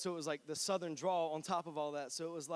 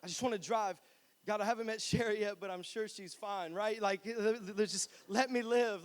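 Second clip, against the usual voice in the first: mock begging prayer. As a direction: beg God like a scared kid. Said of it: "begging God".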